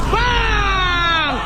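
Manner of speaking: long drawn-out "bang"; sustained celebratory shout; excited shot call. Real, not acted. Calling out a shot in game.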